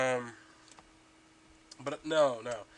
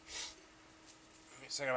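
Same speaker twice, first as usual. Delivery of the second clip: whispered aside; 9 dB quieter, much slower than usual. Real, not acted. Vaping, setting up the e-cigarette.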